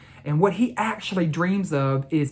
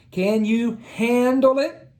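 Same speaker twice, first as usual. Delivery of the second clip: coach voice; 8 semitones higher than usual. A narrator's reading. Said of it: "Coach said".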